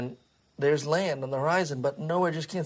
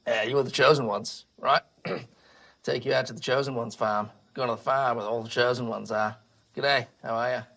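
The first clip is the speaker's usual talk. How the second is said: a hint of a folksy character voice; lightly voiced Noah. Noah addresses the chosen ones, lightly voiced character. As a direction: lightly play a matey boat captain. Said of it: "He says".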